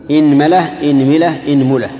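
إنملة with kasra on the hamza, then the meem in three vowels; inmila with i. Shown as a demonstration. Teacher drilling students in the kasra forms of أنملة, pronunciation demo. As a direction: say إنملة as inmela, inmila, inmula. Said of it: "خذوا كسر الهمزة مع تثليث الميم".

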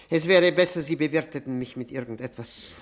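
loud, pushy call across the table; loud demand. Acted. Drunk guest demanding to be served, loud. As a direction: press him loudly for a drink.

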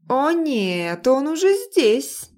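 high, slow cry of alarm. Acted. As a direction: sound the alarm, pitch way up. Alarm at arrival.

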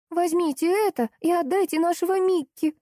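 put-on a small girl pleading for her dog; lightly voiced little girl. A narrator's reading. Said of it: "вдруг сказала девочка".

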